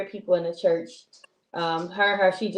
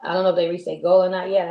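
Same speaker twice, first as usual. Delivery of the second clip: normal talking voice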